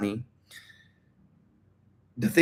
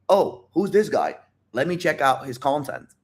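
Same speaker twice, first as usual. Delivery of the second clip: intrigued onlooker; 3 semitones higher than usual. Acted. Voices intrigued viewers finding his video.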